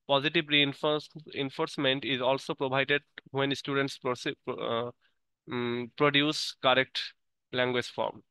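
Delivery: slow, careful reading aloud word by word; teacher reading the English definition aloud slowly; slow textbook reading. Acted. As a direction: read it like dictation for the class. Reads English text slowly.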